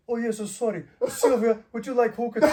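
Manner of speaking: mock-earnest courteous offer, amused; imitated deadly-serious host. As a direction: play the obliging host in all seriousness. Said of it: "He was deadly serious".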